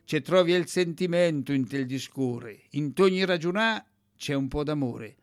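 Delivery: poem read in a rough, raspy voice. Acted. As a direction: rasp through the dialect verses. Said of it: "Ho provato a fare la voce rauca". (leggi con voce rauca e roca)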